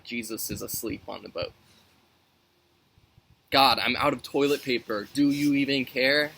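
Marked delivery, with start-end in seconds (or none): 3.5-6.3 louder whiny mock prayer; teen complaining to God about toilet paper, mock whiny; mock complaint. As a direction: ham up a petty complaint to God.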